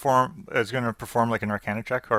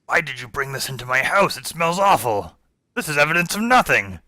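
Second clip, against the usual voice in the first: Riskel; 4 semitones higher than usual. Acted. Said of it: "Riskel says".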